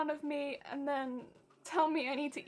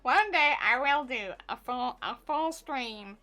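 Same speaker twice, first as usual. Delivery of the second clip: low, gruff goblin voice; 3 semitones lower than usual. Pretend. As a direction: growl it like a little goblin. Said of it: "with the goblin voice".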